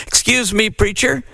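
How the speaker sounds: small nervous voice asking; quivery little voice. A narrator's reading. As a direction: deacon timidly addressing the preacher. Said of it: "in a quivery little voice".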